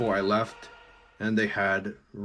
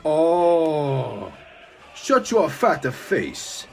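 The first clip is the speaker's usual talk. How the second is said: furious yell; 8 semitones higher, 8 dB louder, slower than usual. Acted. Han yells in rage.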